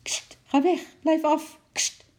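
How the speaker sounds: loud, high scolding at the monkey; a flustered lady shouting at a monkey; shooing shout. A narrator's reading. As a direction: shoo the monkey off the cake. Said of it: "riep mevrouw Jobs".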